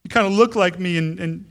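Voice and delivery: gaze at your newborn and melt; loving murmur trailing into a whisper; tender to a baby. Retold or imitated. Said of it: "looked at them like".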